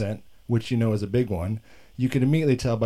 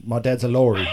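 mock English accent; 4 dB louder than usual. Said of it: "when I do accents".

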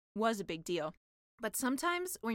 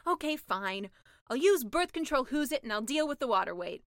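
resigned mermaid; 5 dB louder than usual. Acted. Mermaid gives in.

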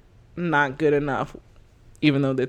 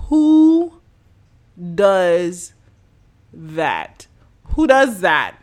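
baffled outrage; 2 semitones higher, 8 dB louder, much slower than usual. Real, not acted. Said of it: "I'm literally baffled and disgusted".

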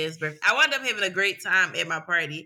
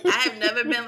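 laughing; 3 semitones higher, 4 dB louder, faster than usual. Real, not acted. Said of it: "laughing at her own story".

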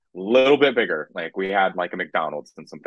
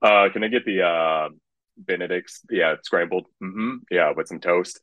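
mimicking a diner's order voice; put-on ordering voice. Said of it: "he'd be talking like this".

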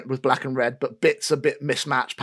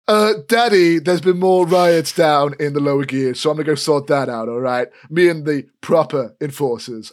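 sweet-talking son; 5 dB louder than usual. Acted. Elfgeet to his father.

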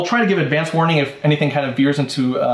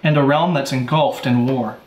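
story narration. Acted. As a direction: set the scene like a storyteller. Narrates the world setting.

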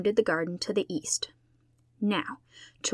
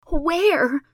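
a much higher, loud tearful cry; sobbing question; 9 semitones higher, 8 dB louder than usual. A narrator's reading. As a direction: sob the question out in distress. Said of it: "sobbed Carrie Sloane".

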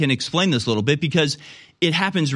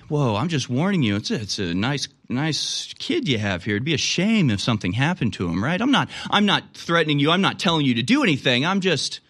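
mock mob extortion, sweetly menacing; smiling menacing loan shark. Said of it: "little emotional blackmail".

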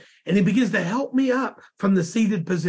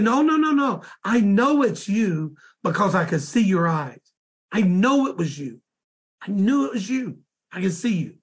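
emphatic insistence. Retold or imitated. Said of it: "he just was emphatic to tell me".

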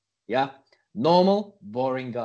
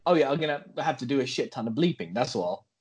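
put-on American accent; 6 semitones lower than usual. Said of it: "slipped out of your American accent".

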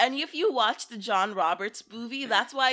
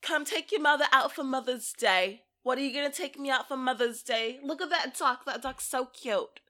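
put-on Brooklyn accent; 4 semitones higher than usual. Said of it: "Or he'll be like".

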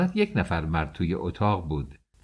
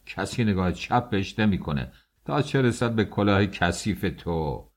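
mock angry shout. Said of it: "یارو داد کشید". (داد عصبانی و آهسته)

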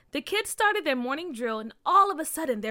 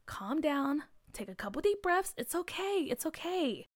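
soothing; 4 semitones higher, 5 dB quieter than usual. Acted. Carr soothing McKinley.

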